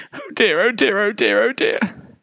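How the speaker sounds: high, worried chant; high-pitched flustered fretting; fretting polar bear. A narrator's reading. Polar bear frets in the sea.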